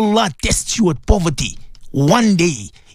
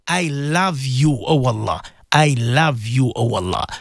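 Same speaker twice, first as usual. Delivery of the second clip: tender prayer; 5 semitones lower than usual. Acted. Leads listeners in prayer.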